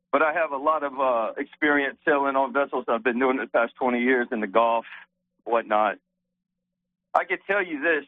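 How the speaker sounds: winded from yard work; breathing hard between words. Real, not acted. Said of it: "Sorry, I'm a little out of breath".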